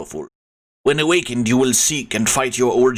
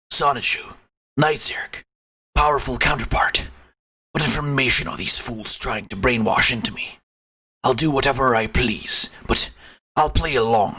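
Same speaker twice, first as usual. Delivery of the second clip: lightly voiced brooding antihero; Shadow voice. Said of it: "more of a Shadow voice".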